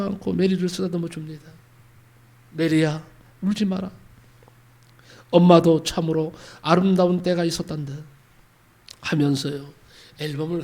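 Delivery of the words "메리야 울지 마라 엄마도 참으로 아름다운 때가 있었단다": tender mother. Acted. Mother comforts crying daughter.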